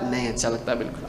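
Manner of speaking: mock a sulky patient brushing it off; whiny refusal. Patient refusing the injection, low fast sulky mumble.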